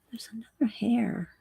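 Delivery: soft unvoiced whisper. Real, not acted. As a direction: breathe the words out. Painting up close, concentrating.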